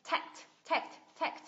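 "tact" with an open E, pitched high; stressed syllable. Shown as a demonstration. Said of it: "Nhấn vào tiếp thứ hai".

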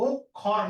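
অক্ষর as ok-khawr, open aw last; wrong second vowel. Shown as a demonstration. Teacher rejecting another form, open last vowel. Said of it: "অক্ষর না".

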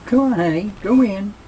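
calling encouragement to the cardinal; coaxing the bird. Real, not acted. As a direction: gently urge the timid bird into the bath.

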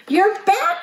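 high-pitched, joyful exclamation; delighted cry. A narrator's reading. Lamb greets his returning mother, delighted cry. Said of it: "cried Wooly".

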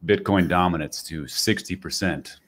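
deepest voice. Shown as a demonstration. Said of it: "in the deepest voice you can".

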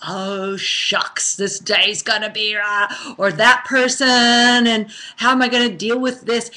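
a hint of a fretting inner voice; inner worried voice. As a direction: lightly mimic the nagging worry in your head. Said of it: "some little tape going on in the background like".

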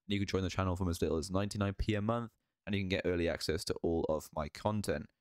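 short of breath from being ill. Real, not acted. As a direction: talk through shortness of breath. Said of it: "I do apologize if I seem a little bit short of breath".

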